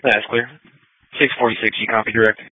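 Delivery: tinny radio dispatch; police radio. Real, not acted. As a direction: call a unit over the radio.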